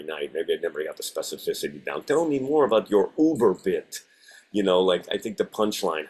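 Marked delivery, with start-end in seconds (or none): 2.0-4.0 put-on lightly Russian-accented; a touch of Russian accent. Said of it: "I get to do ... a Russian accent".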